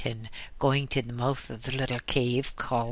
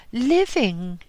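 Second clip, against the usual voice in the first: sudden, higher and louder single word; abrupt answer; 10 semitones higher, 6 dB louder than usual. Acted. Old woman to the Lama, abrupt loud retort. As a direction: snap the word out at him. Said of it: "she answered abruptly".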